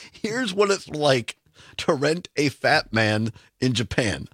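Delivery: slowly repeating the headline in disbelief; host repeating the headline, amused and incredulous. Real, not acted. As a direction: savour each word, baffled. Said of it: "Again, several questions".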